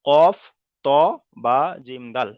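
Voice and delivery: কফ called out loud; called out letter. Shown as a demonstration. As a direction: call out কফ loudly. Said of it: "হুরুফে কলকলার পাঁচটি অক্ষর".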